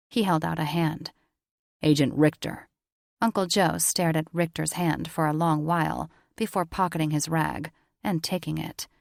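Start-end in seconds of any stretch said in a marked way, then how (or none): 1.8-2.7 lightly voiced agent. A narrator's reading. Richter introduces himself.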